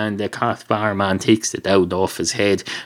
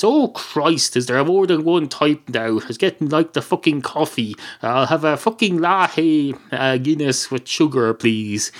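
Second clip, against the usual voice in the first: higher-pitched acted exasperation; exasperated; 3 semitones higher than usual. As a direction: grumble at too many choices. Customer exasperated by choice of Guinness.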